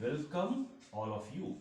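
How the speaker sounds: "Welcome all of you" drawn out very slowly, stress on welcome; slow model phrase. Shown as a demonstration. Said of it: "तो हम ये बोल सकते हैं". ("Welcome all of you" बहुत धीरे)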